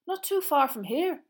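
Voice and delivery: high, loud, excited schoolboy. Acted. Seamus tells where Black was sighted, excited. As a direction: share the news with loud excitement. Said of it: "who looked excited".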